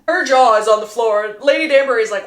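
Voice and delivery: ordinary talk, nothing marked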